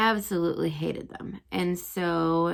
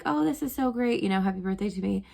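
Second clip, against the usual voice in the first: lightly acted fake cheer, pitched up at first; feigned delight. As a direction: play at being pleased with a surprise party. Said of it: "he acted like he was fine".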